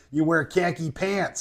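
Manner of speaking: lightly shown Buffalo accent; a touch of Western New York accent. Shown as a demonstration. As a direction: demonstrate the Buffalo vowels in "khaki pants". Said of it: "It's like Western New York".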